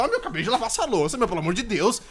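half-joking irritation; mock pissed-off complaint. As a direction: play a housemate fed up over chores. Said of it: "tu já fica puto".

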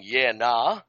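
"yeah, nah" in an Australian accent, lifting at the end; Australian "yeah, nah", rising on "nah"; Australian phrase demo. Shown as a demonstration. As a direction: show "yeah, nah" the Aussie way. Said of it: "classic Australian phrases that are gonna help you".

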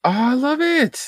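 high, thrilled squeal of delight; delighted gasp. Real, not acted. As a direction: gush over the colors like a fan. Gasps at nineties colors.

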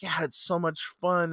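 a touch of an eager fan; passionate. Retold or imitated. Young man agreeing about Star Wars, mildly excited imitation. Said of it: "was just really passionate about it".

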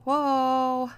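high squealing whoa through tears; tearful squeal. Real, not acted. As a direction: squeal it out, overwhelmed. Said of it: "the floodgates are still going".

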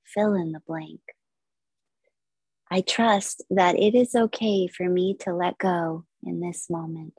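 measured, unhurried yoga nidra guidance; guided meditation. Acted. Yoga teacher leading listeners into stillness, guided meditation. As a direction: guide listeners through relaxation with long pauses.

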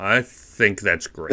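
slow approval, like a dad. Real, not acted. Giving a verdict on the TV feature, dad-like. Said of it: "it sounds like a dad".

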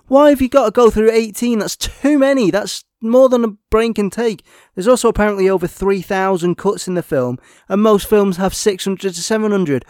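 exasperated rant. Real, not acted. Reviewer ranting at the filmmakers about too many cuts, exasperated and loud. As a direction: vent at the film, worked up.

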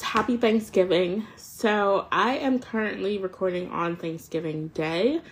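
breathing hard while cleaning up; audible heavy breaths between words. Real, not acted. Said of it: "if you hear me breathing heavily".

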